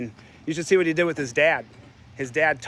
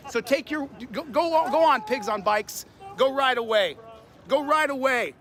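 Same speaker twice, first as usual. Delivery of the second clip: angry taunting; 6 semitones higher than usual. Real, not acted. Man shouts at cops on bikes, angry taunts. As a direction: drive them off with the words.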